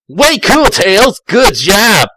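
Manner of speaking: high, excited praise; excited cheer. Acted. Sonic cheering in story.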